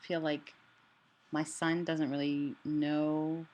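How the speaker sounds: limited range, sore throat voice; swollen tonsils voice. Real, not acted. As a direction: speak around a swollen throat. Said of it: "my voice is better today, but there's some ranges I can't reach".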